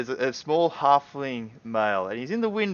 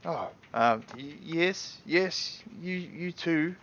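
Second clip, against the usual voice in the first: halfling shopkeeper; 7 semitones higher, much slower than usual. Acted. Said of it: "And he's like".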